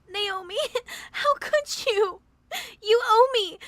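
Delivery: a theatrical wail to guilt-trip a friend; mock sobbing. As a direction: bride fake-sobbing to guilt-trip her best friend. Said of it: "your guilt trip won't work".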